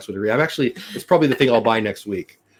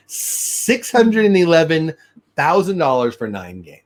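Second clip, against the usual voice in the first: incredulous; 5 semitones higher, slower than usual. Real, not acted. Repeating a shocking salary figure.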